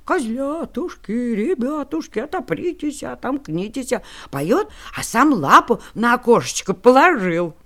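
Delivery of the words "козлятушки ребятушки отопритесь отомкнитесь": wolf faking a thin, soft voice; wolf in disguise. Acted. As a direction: sing sweetly, hiding the wolf. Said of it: "запел тоненьким голоском".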